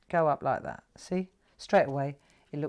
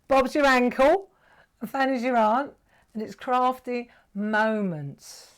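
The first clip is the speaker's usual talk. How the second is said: excited punchline; 6 semitones higher, 7 dB louder than usual. Real, not acted. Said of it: "laughing punchline".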